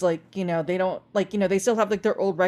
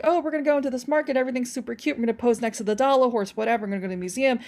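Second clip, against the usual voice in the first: lightly voiced tourist chatter, quick and higher; gushing tourists; 4 semitones higher, much faster than usual. Imitating tourists out on Clark Street, lightly gushing. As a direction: lightly imitate excitable visitors, rattling on.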